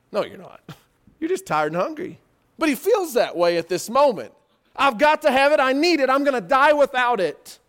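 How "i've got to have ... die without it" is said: loud desperate begging, higher; desperate plea. Retold or imitated. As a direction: cry out that you must have it. Esau desperate for food.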